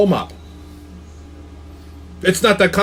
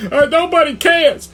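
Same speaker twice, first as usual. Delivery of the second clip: mocking dismissal; 10 semitones higher than usual. Mock dismissive retort to crying player.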